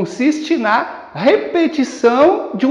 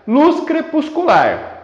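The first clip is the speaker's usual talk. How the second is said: slow and higher, syllables counted out; syllable-by-syllable scansion; 5 semitones higher, slower than usual. Shown as a demonstration. Teacher scanning the verse's end, syllable by syllable. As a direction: beat out "luz crepuscular" slowly by syllables. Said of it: "Então você tem assim".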